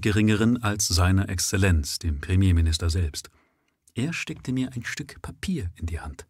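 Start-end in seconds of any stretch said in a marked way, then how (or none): 3.9-6.3 unvoiced secret whisper. A narrator's reading. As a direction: whisper it conspiratorially. Secret handing of paper.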